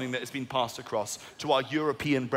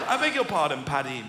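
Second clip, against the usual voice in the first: incredulous; 7 semitones higher than usual. Retold or imitated. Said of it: "I was like".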